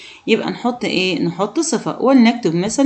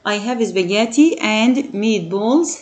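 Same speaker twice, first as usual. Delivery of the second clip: slow model sentence; much slower than usual. Shown as a demonstration. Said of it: "teacher models example sentence".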